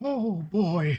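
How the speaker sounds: high, put-on storybook old man voice. Showing the classic fantasy-series old man's voice: David Attenborough old-man voice. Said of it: "That's basically how you talk like David Attenborough".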